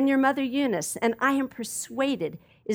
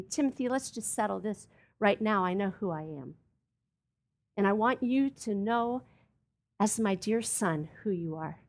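tender; 3 semitones lower, 5 dB quieter than usual. Retold or imitated. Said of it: "And Paul says to Timothy".

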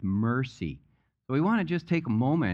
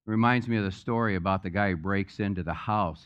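usual speaking voice

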